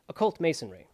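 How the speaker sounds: put-on Manly P. Hall transatlantic accent on "Occult Masonry"; "Occult Masonry" in an old transatlantic accent. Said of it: "Hall transatlantic accent".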